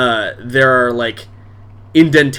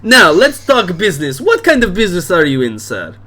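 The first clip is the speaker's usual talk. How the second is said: high and louder, laughing through the toast; hearty drunk host; 7 semitones higher, 4 dB louder than usual. Acted. Dad toasting the stranger with vodka, loud and laughing. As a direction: raise the glass and boom. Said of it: "He's like".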